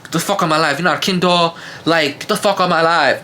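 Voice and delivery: mock her Baltimore accent as she crashes out. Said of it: "her little Baltimore accent".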